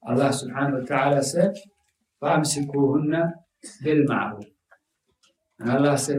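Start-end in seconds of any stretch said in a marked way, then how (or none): 2.2-4.5 quick recited Arabic verse; Quran recitation. Acted. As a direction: chant the verse swiftly.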